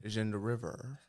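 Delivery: put-on Australian storytelling line; attempted Australian with Chinese inflection; Chinese Australian accent. Host improvising for the character, Chinese Australian accent. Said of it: "a Chinese Australian man".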